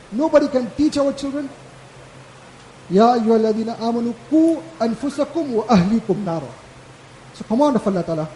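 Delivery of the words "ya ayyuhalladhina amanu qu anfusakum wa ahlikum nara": Quran recitation. Real, not acted.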